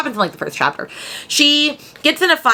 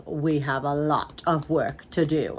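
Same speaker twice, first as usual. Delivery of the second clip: lightly voiced stylist; 6 semitones lower, 7 dB quieter, slower than usual. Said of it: "he goes".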